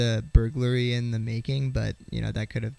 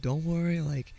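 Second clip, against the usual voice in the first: raised voice, hurried apology; placating dad; 5 semitones higher, 4 dB louder than usual. Retold or imitated. Dad apologising to an angry stranger at night, placating. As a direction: imitate a dad trying to smooth things over.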